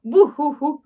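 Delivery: spelt-out boo-hoo; light imitation of crying; mock sobbing. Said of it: "रोते हुए निकल गई". (रोने की हल्की नकल)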